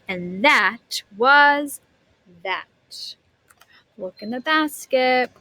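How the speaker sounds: lively storybook reading voice; animated read-aloud for a class; reading to children. A narrator's reading. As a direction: read it like a picture book to kids.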